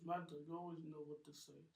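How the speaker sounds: lightly voiced lovestruck girlfriend; a touch of a sigh of admiration; swooning Rose. Girlfriend admiring Mad Dog, lightly voiced.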